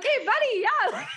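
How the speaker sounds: high hammy Canadian buddy voice, laughing; a jokey Canadian "hey buddy"; Canadian accent. Pretend. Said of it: "your Canadian accent just came out".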